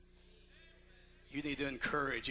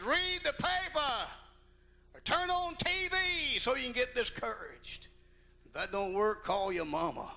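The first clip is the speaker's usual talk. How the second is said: mock sarcastic advice; 11 semitones higher than usual. Husband teasing his wife, lightly mocking. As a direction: rib her playfully. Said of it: "I said".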